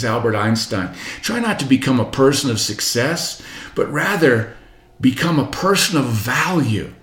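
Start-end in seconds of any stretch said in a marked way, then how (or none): none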